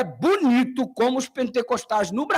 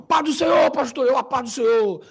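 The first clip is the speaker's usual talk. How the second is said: eager pentecostal greeting; 3 semitones higher, 3 dB louder than usual. Retold or imitated. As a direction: greet the host pastor warmly. Greeting the pastor imitated.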